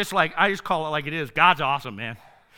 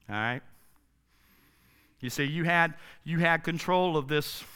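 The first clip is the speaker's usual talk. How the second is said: a touch of tough talk; 5 semitones lower, 5 dB quieter than usual. Retold or imitated. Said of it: "Jesus saying".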